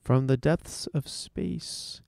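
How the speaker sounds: slow, dramatic sci-fi trailer voice; old sci-fi announcer. Pretend. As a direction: intone it like a fifties space serial. Radio tease of space news.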